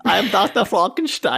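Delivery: put-on mad doctor in a German accent; hammy German accent as Frankenstein. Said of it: "give us a good German accent".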